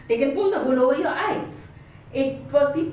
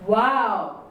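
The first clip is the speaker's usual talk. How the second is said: wow with delight; an impressed exclamation; 3 semitones lower than usual. Shown as a demonstration. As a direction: say it like you love what you see. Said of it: "my tone says".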